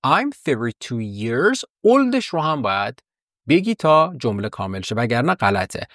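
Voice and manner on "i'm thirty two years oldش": put-on OLD held long at the end; teacher stressing the final word. Shown as a demonstration. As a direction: lean on oldش to finish the sentence. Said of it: "وقتی گفتی".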